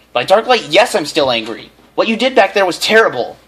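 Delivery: high, loud reply; mother answering her son; mock angry mother. A narrator's reading. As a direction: scold through laughter.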